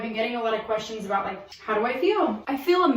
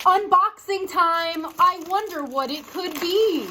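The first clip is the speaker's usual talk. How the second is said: excited announcer; 7 semitones higher, slower than usual. Pretend. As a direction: play a giddy unboxing host. Hammed-up unboxing announcement.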